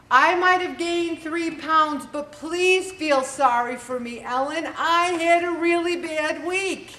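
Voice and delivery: begging Ellen for sympathy in a put-on whine; mock whiny excuse. A dieter whining to Ellen for sympathy, mock pleading.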